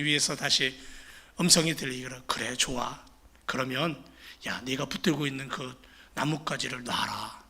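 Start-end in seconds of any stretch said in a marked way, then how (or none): 2.3-7.4 calm command. Acted. God calmly tells him let go.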